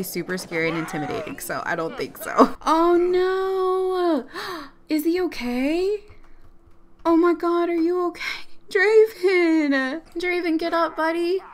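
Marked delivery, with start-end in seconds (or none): 2.7-11.4 calling out in alarm to a fallen friend; real distressed cry; high worried cry. Real, not acted. Her sim is knocked down.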